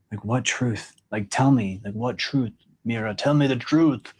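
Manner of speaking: pressing, disbelieving questions; incredulous. Shown as a demonstration. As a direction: demand the truth, not believing a word. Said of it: "Like, you're incredulous".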